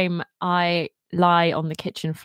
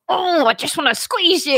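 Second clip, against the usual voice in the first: high cooing squeeze-you voice; cutesy squeal; 8 semitones higher than usual. Retold or imitated. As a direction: gush over a tiny puppy. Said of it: "be like".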